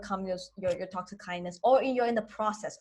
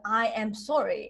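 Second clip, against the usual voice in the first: heavy apologetic sorry. Shown as a demonstration. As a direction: say sorry like you really regret it, lightly. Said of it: "It is not a".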